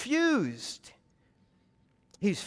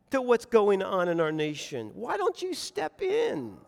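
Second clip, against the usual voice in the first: anguished protest. Acted. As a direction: beg God to intervene. Acted protest prayer to God.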